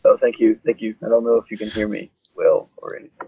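sounds like talking in a tunnel; hollow bad-mic sound; echoing tunnel. Real, not acted. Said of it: "Sounds like you're in a tunnel".

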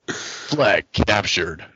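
imitated game announcer, drawn out; slow, measured announcer call. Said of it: "like a different announcer".

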